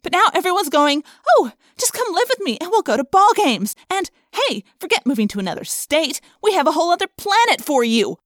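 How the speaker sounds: high, loud, frightened rant; distraught outburst. A narrator's reading. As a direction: pour out the fear at full pitch.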